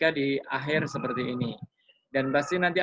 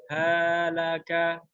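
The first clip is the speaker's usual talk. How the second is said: wrong uneven demo; 2 semitones higher, much slower than usual. Shown as a demonstration. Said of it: "tidak boleh panjang salah satu".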